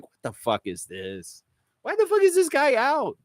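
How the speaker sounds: mock outrage. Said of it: "I was like".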